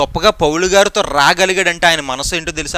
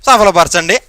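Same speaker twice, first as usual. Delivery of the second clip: hurried general prayer; 3 semitones higher, 3 dB louder than usual. Retold or imitated. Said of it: "అనేస్తాం".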